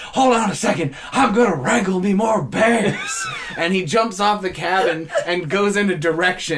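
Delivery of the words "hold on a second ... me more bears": playful announcement. Retold or imitated. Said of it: "And so Steven goes".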